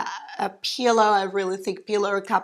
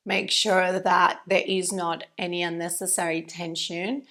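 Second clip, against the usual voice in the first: calm, quieter voice settling inward; guided meditation; 3 dB quieter than usual. Real, not acted. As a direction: ease them into stillness, unhurried with long pauses. Guides students into stillness.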